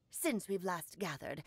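put-on low, stern old hag voice. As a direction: imitate a severe old witch. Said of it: "talking just like the old hag".

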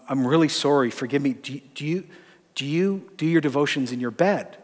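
mildly sheepish, halting apology and question. Retold or imitated. Pastor carefully asking a woman about her devotions, mildly sheepish. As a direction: ask tentatively, stumbling into the question. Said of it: "I very sheepishly said to her".

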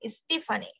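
"Stephanie" as estifani, calm and low; English pronunciation. Shown as a demonstration. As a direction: model "Stephanie" as es-TI-fa-ni. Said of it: "Así se pronuncia". (modelo de pronunciación de "Stephanie")

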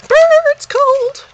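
high, loud shivering cry; shivering shout. Real, not acted. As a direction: yelp at the freezing air. Steps out into the cold.

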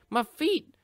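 high, loud cartoon yelp; mock agony yell. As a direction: squeal it in exaggerated alarm. Hurt feet during game play.

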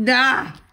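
short startled yelp, high and loud; sharp yelp. Real, not acted. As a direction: let out a quick surprised cry. Scratching reveal.

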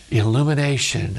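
soft, low gasp of revelation; mock awe. Preacher mocking kundalini awakening, hushed mock awe. Mimics enlightenment after serpent rises.

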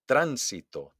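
"Tránsito" punched on TRÁN; stress on first syllable. Shown as a demonstration. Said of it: "hago un golpe de voz". ("Tránsito" con golpe de voz en TRÁN)

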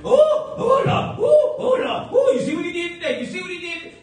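high, loud ooh ooh Lord cries; mock panicked whooping. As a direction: play the panicking churchgoer, shouting up high. Mocking people's panic over president.

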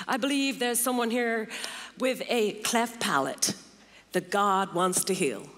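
a hint of an American pastor's accent, slowing on "with a cleft palate"; lightly put-on American accent for the prophetic word. Pastor quoting John Wimber at a meeting, lightly put-on American accent. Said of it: "in his wonderful American accent".

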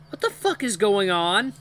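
high, loud, drawn-out squeal; pitiful squeak. A narrator's reading. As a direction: squeak out panicked confusion. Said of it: "I ask myself in a pitiful squeak".

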